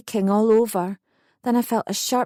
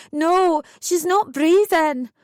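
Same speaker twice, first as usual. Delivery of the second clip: higher, louder urgent insistence; angry alarm; 7 semitones higher, 4 dB louder, slower than usual. A narrator's reading. Mother insisting to the staff, angry and high. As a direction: make them listen. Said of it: "I was angry now".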